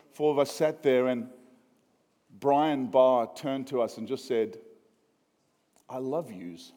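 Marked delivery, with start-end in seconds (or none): 5.9-6.7 Texan New York twang. Retold or imitated. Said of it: "he's Texan. It sounded a little bit like New York".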